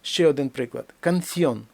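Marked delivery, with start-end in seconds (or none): 1.0-1.6 Canción in two syllables, stress on ón; stressed diphthong. Shown as a demonstration. Teacher gives another example, diphthong whole. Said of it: "Дифтонг наголошений".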